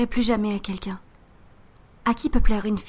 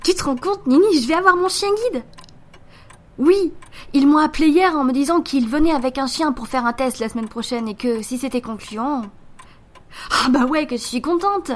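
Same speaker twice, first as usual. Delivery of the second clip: higher, bubbling with joy; excited news; 3 semitones higher than usual. Acted. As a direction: burst with happy news on the phone. Annonce joyeuse au téléphone. (tout excitée, voix plus aiguë)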